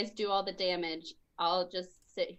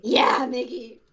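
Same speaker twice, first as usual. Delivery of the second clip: whisper; 2 semitones higher, 7 dB louder, slower than usual. Real, not acted. Teammate cheering in whisper.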